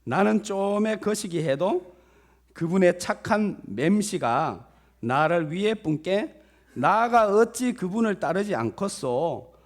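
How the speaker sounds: loud, hearty put-on Jeolla accent; hammed-up Jeolla recitation; Jeolla dialect. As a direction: proclaim it in folksy Jeolla dialect. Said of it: "전라도 버전이더라고요".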